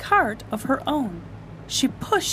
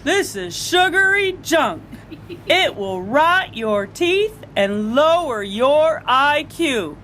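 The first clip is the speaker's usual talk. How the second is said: louder, slow stern lecture; scolding father; 3 semitones higher, 3 dB louder than usual. Acted. Father scolds Taya again, slow and stern. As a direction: lay down the law slowly.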